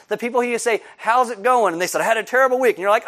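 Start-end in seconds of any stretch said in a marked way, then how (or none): 1.0-1.7 friendly greeting. Acted. Asking a whiny friend. 2.0-2.8 whiny complaint. Acted. Friend whines about week.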